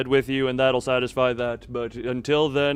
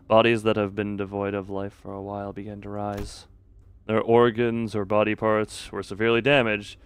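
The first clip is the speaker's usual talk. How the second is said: measured storyteller's read, slightly lowered; game narration; 4 semitones lower than usual. A narrator's reading. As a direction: narrate the grim scene evenly. Reads the game's narration.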